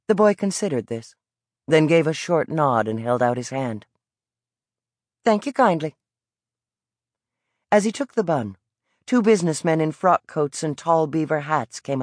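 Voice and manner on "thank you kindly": put-on higher, evasive young boy's voice; defiant Southern boy. A narrator's reading. Boy dodging the vendor, higher and cocky. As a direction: dodge the question with cocky pride.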